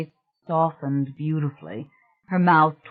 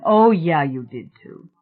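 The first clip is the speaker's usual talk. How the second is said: a quick sharp jab, then drops; lightly sharp, cutting him off; slight sharpness; 7 dB louder than usual. Acted. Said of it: "she said with slight sharpness".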